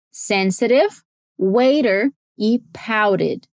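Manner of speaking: slow careful "sensitive", "waiter", "pouted", flapped t's. Shown as a demonstration. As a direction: pick out each word, tapping the t in "waiter" and "pouted". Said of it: "dá pra ouvir o flap T".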